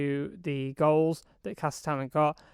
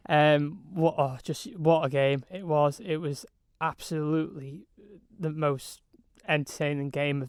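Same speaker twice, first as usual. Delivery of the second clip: hoarse, strained voice after shouting. Real, not acted. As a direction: voice nearly gone from commentating. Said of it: "you can probably hear it".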